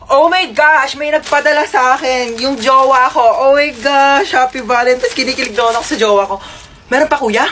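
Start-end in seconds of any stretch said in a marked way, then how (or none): 0.1-5.1 giddy excitement. Acted. Gets a Valentine delivery, giddy and squealing. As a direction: gush like a giddy teen.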